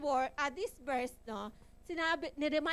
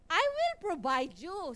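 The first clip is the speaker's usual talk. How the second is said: reassuring Lord; 4 semitones higher, 4 dB louder than usual. Retold or imitated. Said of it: "sabi niya".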